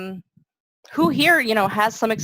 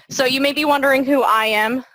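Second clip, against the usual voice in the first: voice cutting out; 4 semitones higher, 3 dB louder than usual. Real, not acted. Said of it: "my voice is cutting in and out".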